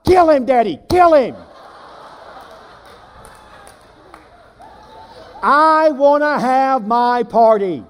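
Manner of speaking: put-on high, loud child's scream, slowing at the end; a boy shrieking a tantrum for his party. Little boy screams at his daddy, high and loud. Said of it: "he began to scream and cry".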